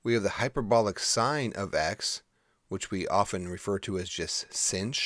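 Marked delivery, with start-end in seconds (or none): 4.5-4.9 sinh said as one syllable, like "sinch"; spoken short form. Shown as a demonstration. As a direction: pronounce sinh as a single word, "sinch". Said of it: "is how we say it".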